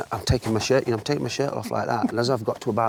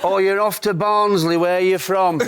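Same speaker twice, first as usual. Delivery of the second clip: Clough voice; 8 semitones higher, 6 dB louder than usual. Retold or imitated. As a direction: tease the young keeper, stretching each word. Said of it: "He's going".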